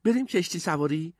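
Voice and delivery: put-on high, lively boy's voice after a chuckle; amused, eager character voice; laughing. A narrator's reading. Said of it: "تری خندید و گفت".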